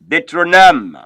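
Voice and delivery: Deuteronome said "day-tro-NOM"; Deuteronome in French, landing on a falling -nom; French pronunciation. Shown as a demonstration. Teacher models the next book, Deuteronome as "day-tro-NOM". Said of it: "follow up the pronunciation there".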